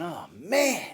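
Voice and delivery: retelling a panicked thought about thirty tickets, whispered. Retold or imitated. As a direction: breathe it like a secret dread. Retold inner panic whispered.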